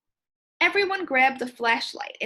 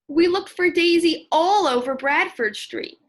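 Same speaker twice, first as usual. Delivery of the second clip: put-on louder, higher, a worried kid searching for a lost cat; worried searcher; 5 semitones higher, 7 dB louder than usual. Shown as a demonstration. Child searching for lost cat Daisy, calling out worried. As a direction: call out with concern for the missing pet. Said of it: "sound like somebody who's looking for a lost pet".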